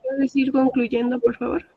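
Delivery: repeated slowly after not being heard. Real, not acted. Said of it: "¿Cómo dices?".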